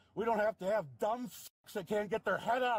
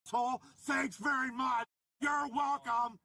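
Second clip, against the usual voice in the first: bitter sarcasm at the cops; sarcastic shout; 4 semitones higher, slower than usual. Real, not acted. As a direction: shout the thanks with scorn.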